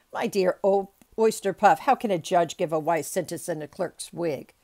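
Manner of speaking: loud, pompous bluster; blustering judge. A narrator's reading. Judge protesting to his clerk about the wig, blustering. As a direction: remonstrate loudly from the bench.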